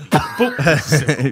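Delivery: sing-song count. Shown as a demonstration. Showing friends a new way to count, sing-song. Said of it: "replace the number with Boop".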